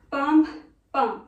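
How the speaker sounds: "Bum, bum" as two separate beats, the first punched; two accents. Shown as a demonstration. Dance teacher cueing the hip accents again, punched beats. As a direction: punch the first "Bum", let the second drop. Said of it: "two accents like".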